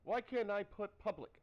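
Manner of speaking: high, excited mock declaration. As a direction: gush it like an excited teen in love. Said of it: "she's like".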